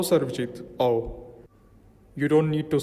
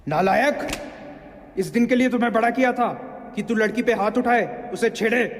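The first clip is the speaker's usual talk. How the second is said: higher-pitched, indignant father's reproach; angry scolding; 5 semitones higher than usual. Acted. Father rebukes his son over family honour, angry scolding. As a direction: berate a son who shamed the family.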